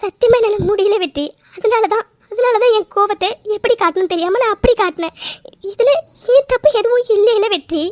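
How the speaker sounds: upset, voice catching with sobs; tearful complaint. Acted. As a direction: justify yourself through held-back tears. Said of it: "please அழாதீங்க".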